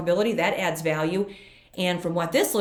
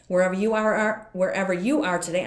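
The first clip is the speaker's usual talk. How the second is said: too much caffeine. Real, not acted. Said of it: "the coffee is really kicking in".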